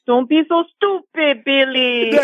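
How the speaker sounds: lightly voiced Rosie Perez, slow and scolding; mock-scold Billy as Rosie Perez; a hint of a Brooklyn girlfriend chiding; Rosie Perez impression. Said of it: "a little Rosie Perez".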